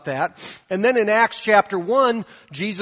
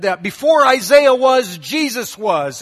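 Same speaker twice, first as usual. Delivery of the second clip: fired-up preacher; 4 semitones higher, 4 dB louder than usual. Retold or imitated. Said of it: "he was getting fired up".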